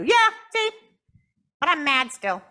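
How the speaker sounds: squeaky high puppet hello, loud; puppet Jasmine greeting. Acted. Puppet Jasmine greets the audience in a high squeaky voice. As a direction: pop up and chirp hi.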